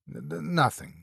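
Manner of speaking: frightened stammer on the n. Acted. Lester too scared to finish, stammering. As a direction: stumble over nothing in fear. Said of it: "stammered Lester".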